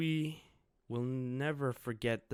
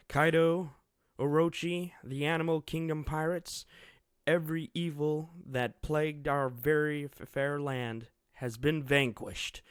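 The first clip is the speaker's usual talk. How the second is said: triumphant announcement; 5 semitones higher, 7 dB louder than usual. Acted. Victory announcement to crowd.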